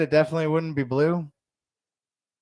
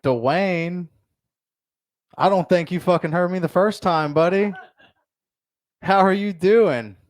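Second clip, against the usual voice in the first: mock aggressive; 3 semitones higher than usual. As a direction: lean into Dwayne, mock threatening, words slow at the end. Retold aggressive repeat to buddy.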